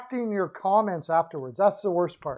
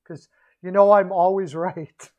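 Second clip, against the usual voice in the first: cracking up; 4 dB louder than usual. Real, not acted. Streamer bragging to viewers he's always right, laughing through it. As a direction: boast breaking into a real laugh. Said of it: "I can't even say that without laughing".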